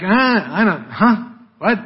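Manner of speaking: mock-confused stammer of evasion; playing dumb. Peter dodging the question, feigned puzzlement. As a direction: act as if the question went past you. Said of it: "He just kind of dodges".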